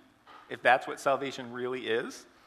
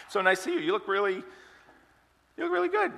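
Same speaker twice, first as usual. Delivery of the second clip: pointed compliment; 10 semitones higher, 4 dB louder than usual. Acted. Dad greets his slimmer daughter.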